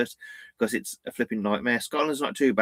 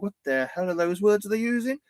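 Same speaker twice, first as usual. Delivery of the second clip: higher-pitched mock bewilderment; retold bafflement; 9 semitones higher than usual. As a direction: act out baffled disbelief, voice jumping up. Retelling own bafflement at dialect.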